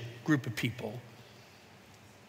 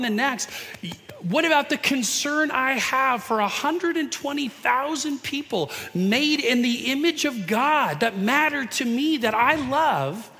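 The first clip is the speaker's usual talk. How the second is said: pleading God; 5 semitones higher than usual. Pretend.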